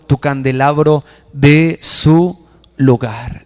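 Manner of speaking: slow, drawn-out, emphatic reading; solemn scripture reading. Real, not acted. Preacher reading the verse to the congregation, solemn and slow. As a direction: proclaim each phrase slowly and forcefully.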